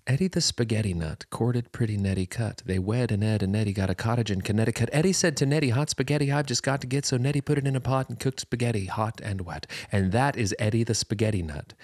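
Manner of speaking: singsong schoolroom recital; poem recital. Shown as a demonstration. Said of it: "it goes like this".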